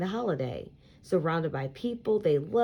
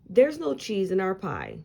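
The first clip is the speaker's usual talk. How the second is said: reassuring; 3 semitones higher, 3 dB louder than usual. Acted. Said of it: "says Uncle Mark reassuringly".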